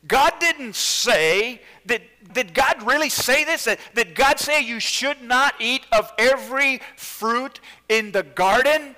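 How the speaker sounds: loud, high, coaxing tempter; hammed-up serpent tempting Eve; Satan's voice. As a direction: sell the lie, wheedling and loud. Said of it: "and he says".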